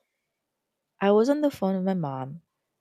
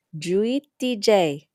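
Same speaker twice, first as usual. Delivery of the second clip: mumbling Lola; 3 semitones higher, 4 dB louder, slower than usual. Acted. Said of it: "she mumbles".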